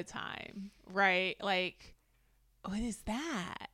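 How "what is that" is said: playful imitation, the blings squealed very high; quoted catchphrase. Co-host repeating her brother's favorite quote, playful high-pitched mimicry. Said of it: "my brother quotes this".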